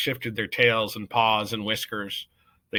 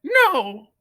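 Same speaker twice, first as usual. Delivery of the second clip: higher, loud, firm no; young mouse openly defying the court; 12 dB louder than usual. A narrator's reading. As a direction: say it boldly this time. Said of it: "he did not whisper the word".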